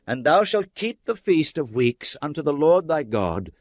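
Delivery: ordinary delivery, nothing marked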